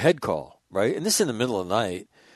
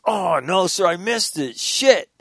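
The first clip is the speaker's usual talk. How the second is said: higher-pitched imitation of disappointment; retold dismay; 7 semitones higher, slower than usual. Imitating sergeant who missed the cow photo, dismayed. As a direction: lament the missed chance, rising to a curse.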